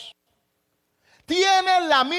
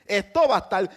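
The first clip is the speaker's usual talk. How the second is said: lower, softer inner warning; voice of his emotions; 8 semitones lower, 3 dB quieter than usual. Acted. Jesus's emotions warning him of pain, low and soft. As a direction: let the dread speak low inside him. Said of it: "Sus emociones le están diciendo".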